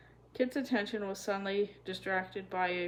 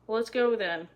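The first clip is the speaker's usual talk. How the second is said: louder, pushy hurry-up; impatient; 3 semitones higher, 6 dB louder than usual. A narrator's reading. Lex impatiently urges the kids toward the train. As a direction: hurry them along, fed up. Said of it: "said Lex impatiently".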